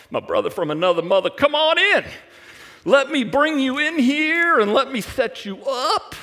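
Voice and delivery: loud, high fawning welcome; greedy host. Retold or imitated. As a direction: overdo the hearty greeting. Greedy Laban welcomes rich guest.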